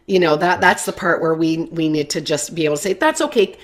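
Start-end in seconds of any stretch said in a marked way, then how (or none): 2.9-3.6 high, bright sing-song parent voice, much higher; upbeat parent. Acted. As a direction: cheerfully send the child off to vent. Parent voiced to upset child.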